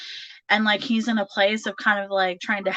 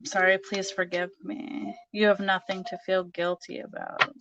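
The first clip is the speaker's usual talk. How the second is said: soft apology; 6 dB quieter than usual. Acted. Reads out a message softly.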